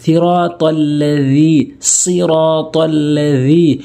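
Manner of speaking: slow, drawn-out recitation; recitation demo. Shown as a demonstration. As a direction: recite with long held vowels. Teacher models Quran recitation.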